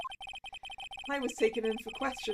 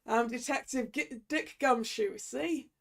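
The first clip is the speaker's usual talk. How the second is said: Gumshoe voice. Acted. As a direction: talk like a hard-boiled cop, see. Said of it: "We need a good Gumshoe voice".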